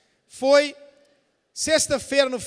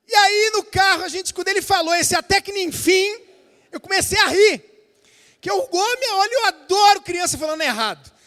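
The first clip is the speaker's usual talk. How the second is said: higher, louder, laughing through the memory; amused, laughing; 7 semitones higher, 6 dB louder than usual. Real, not acted. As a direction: let the amusement spill into the voice. Laughing recalling son's phrase. (rindo, empolgado, lembrando do filho)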